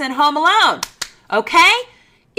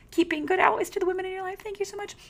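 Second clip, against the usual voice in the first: mock sweet praise; 9 semitones higher, 7 dB quieter, faster than usual. Mock-sweet praise to men continues.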